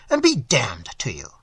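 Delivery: whispered parting curse. Acted. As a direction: breathe the curse out, no voice. Gruff host's parting jab.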